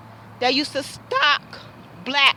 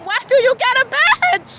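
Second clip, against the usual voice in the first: pitched up, near yelling; angry shout; 8 semitones higher, 3 dB louder than usual. Real, not acted. Confronting the officer who failed her, shouting. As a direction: demand it, louder each time. Third time, highest.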